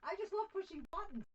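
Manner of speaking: high, loud delight; gleeful. Real, not acted. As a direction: squeal it with glee. Gleeful over stream buttons.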